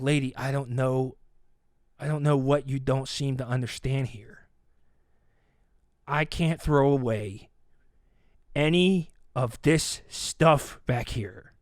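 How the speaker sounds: low, slow, heated with a little gravel; firm, measured refusal with a gravelly edge; low and deliberate, getting a little heated. Retold or imitated. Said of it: "there's a little gravel in my voice".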